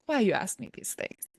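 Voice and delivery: put-on would-be Russian accent slipping into Italian; badly faked Russian accent. Woman imitating her puzzled boyfriend, bungled Russian accent. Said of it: "I can't do his accent".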